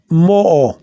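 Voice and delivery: mo-o with both O's sounded, one then the other; two O's pronounced. Shown as a demonstration. Teacher showing learners both O's in mo-o, double-O pronunciation. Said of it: "You're pronouncing the O, one O and then the other O".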